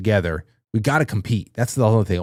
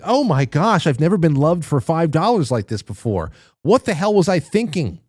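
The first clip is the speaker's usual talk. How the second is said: mock gushing; 5 semitones higher than usual. Imagined sponsor gushing.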